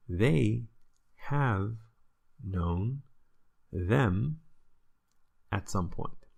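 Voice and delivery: slow, each word set apart with pauses. Shown as a demonstration. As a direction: spell out "They have known them" one word at a time. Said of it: "Zij hebben hen ooit wel gekend".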